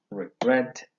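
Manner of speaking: "Regret" with the weight on -GRET; stress on last syllable. Shown as a demonstration. Teacher giving another example of final stress, "Regret" stressed on GRET. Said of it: "the same".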